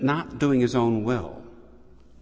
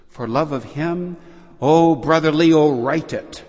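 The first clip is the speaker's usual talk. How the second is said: retold triumph building to a near shout; triumphant; 5 semitones higher, 6 dB louder than usual. Francis tells Brother Leo, triumph building to a loud cry. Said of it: "says Francis triumphantly".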